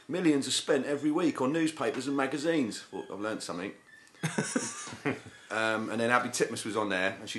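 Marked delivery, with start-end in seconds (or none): 0.1-2.8 higher-pitched documentary opening line; mock-earnest TV voiceover quote; documentary narrator. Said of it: "started with the sentence".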